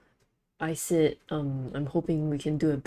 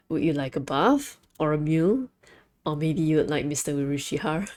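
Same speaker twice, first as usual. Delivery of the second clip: louder, eager hostess welcome; lightly voiced flirty cafe hostess; maid greeting; 3 dB louder than usual. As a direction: offer it sweetly, playing the maid. Voicing maid greeting line.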